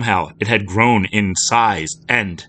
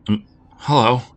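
croaked; 5 semitones higher, 3 dB louder than usual. Acted. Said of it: "she croaked".

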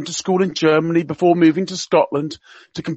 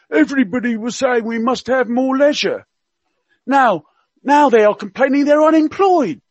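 higher, hammed-up Cockney accent; Prince Philip in Cockney; 8 semitones higher, 4 dB louder than usual. Radio guest quoting royal gaffes to listeners, mock Cockney accent. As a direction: play the old duke's gaffes in mock Cockney. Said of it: "he spoke with a Cockney accent".

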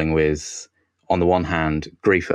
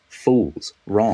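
dismissive, punchy verdicts; hammed-up disdain for the doubters; mock scorn; 4 semitones higher than usual. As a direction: brush the critics off with mock contempt. Mock-dismissing Riverdale's critics.

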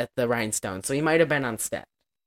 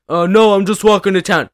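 mock innocent reply; 4 semitones higher, 7 dB louder than usual. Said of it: "and he's like".

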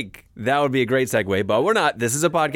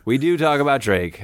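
sarcastic; 3 semitones higher than usual. Acted. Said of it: "I was being sarcastic".

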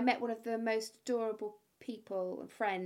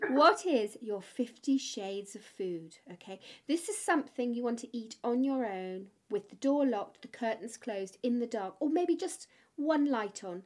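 playfully seductive. Pretend. Host asks guest his guilty food secret, playfully seductive. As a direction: draw it out like a naughty secret. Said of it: "in my most seductive way".

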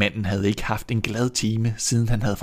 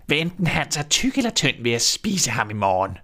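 greedy witch voice; old witch; 3 semitones higher than usual. Acted. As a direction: relish the threat like a hungry witch. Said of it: "sagde hun til Grete".

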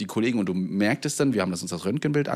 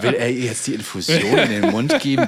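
laughing; 3 semitones higher, 7 dB louder than usual. Retold or imitated. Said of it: "Ich dachte auch gerade so".

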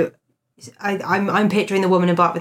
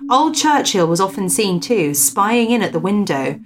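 measured storyteller's read-aloud; story narration; 2 semitones higher than usual. Acted. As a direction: read out an old ghost report with deliberate emphasis. Reads a ghost story aloud.

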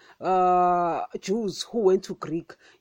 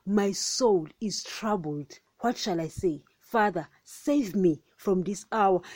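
troubled. Retold or imitated. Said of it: "speaking in this manner".

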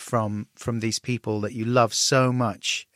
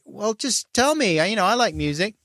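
pleading dad; 9 semitones higher than usual. Retold or imitated. Dad begging his son to share his music, high and pleading. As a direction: whine a little like a dad begging to be let in. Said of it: "And then you're like".

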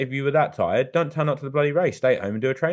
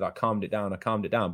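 calmed down; 3 semitones lower, 8 dB quieter than usual. Retold or imitated. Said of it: "He said".

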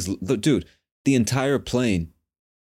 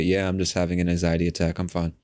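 calm, understated admission; matter-of-fact; 2 semitones lower than usual. Retold or imitated. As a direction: let it out calmly, as if nothing is wrong. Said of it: "just in this matter-of-fact way".

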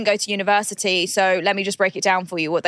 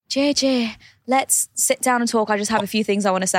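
imitating Catherine's accent; 2 semitones higher than usual. Host imitating Catherine opening a talk, in her accent. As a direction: put on Catherine's accent and start to lose it. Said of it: "I couldn't maintain the accent".

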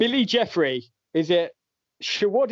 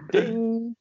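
higher-pitched vocal "ding"; imitated bell ding; 6 semitones higher than usual. Quiz host confirms a right answer, playful bell ding. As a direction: sound the correct-answer bell with your voice.

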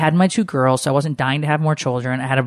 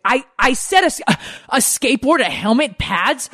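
put-on much higher child voice, eager; kid son voice; 10 semitones higher than usual. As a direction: play the little boy listing his wish. Son KJ answers about birthday gift.

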